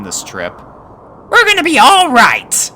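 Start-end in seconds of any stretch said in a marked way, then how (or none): 1.3-2.7 put-on high-pitched boy pony, bossy; young colt voice. A narrator's reading. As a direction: play a cocky young colt. Snips smiling.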